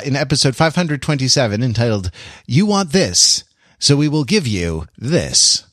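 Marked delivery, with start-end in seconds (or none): 2.5-5.6 slight announcer voice. Shown as a demonstration. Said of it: "the slight announcer voice that I do for the, the titles".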